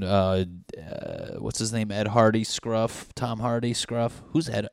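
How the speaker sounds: normal talking voice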